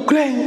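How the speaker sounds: high-pitched imitated slam; sharp "greng" of a slammed door; hard door slam. Shown as a demonstration. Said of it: "wataknya juga sekeras itu".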